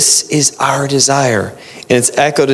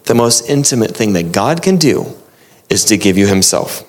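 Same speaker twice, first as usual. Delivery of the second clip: repeated for emphasis; 5 semitones lower than usual. Shown as a demonstration. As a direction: let "The most intimate thing that God can do is to give you himself" land gently. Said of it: "I'm gonna say that again".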